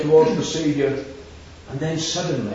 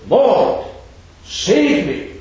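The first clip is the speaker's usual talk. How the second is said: Peter's cry, voiced higher and louder; mock cry for help; 7 semitones higher, 6 dB louder, much slower than usual. Preacher voicing Peter sinking in the gale, louder cry for help. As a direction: call out as if sinking. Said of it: "he called out".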